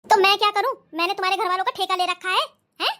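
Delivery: a hint of a mocking husband, dismissive; lightly voiced husband sneering at her family; sarcastic husband. Husband to wife about her mother, lightly mocking.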